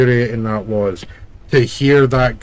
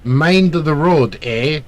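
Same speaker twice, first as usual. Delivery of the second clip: put-on Canadian accent, slow and a bit raised; mock Canadian accent; 3 semitones higher, slower than usual. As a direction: drawl out "Mind the road, eh" like a Canadian. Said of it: "And the sign said".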